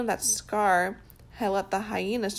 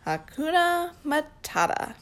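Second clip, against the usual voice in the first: Timon voice; 7 semitones higher than usual. Acted. Timon teaching the phrase.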